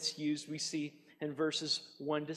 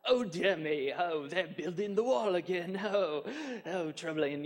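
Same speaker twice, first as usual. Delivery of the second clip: mock dainty dismay; 2 semitones higher than usual. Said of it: "It wasn't like".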